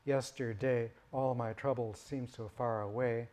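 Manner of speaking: lyric spoken with metrical beats marked; song line recited with the grid's beats; reading by the grid. Shown as a demonstration. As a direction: read the line to its stress grid. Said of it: "that's what that metric grid is saying".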